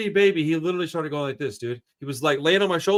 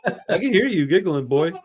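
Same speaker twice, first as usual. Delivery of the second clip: playful teasing; 5 dB louder than usual. Real, not acted. Playfully calling to hiding child.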